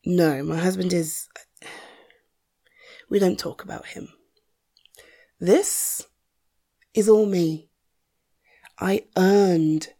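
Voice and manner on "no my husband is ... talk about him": whispering. Acted. Avoiding talk of husband.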